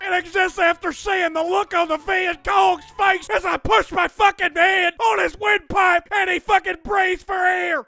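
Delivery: gruff barking drill sergeant. Acted. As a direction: bark like a Vietnam vet sergeant. Drill sergeant voice all along.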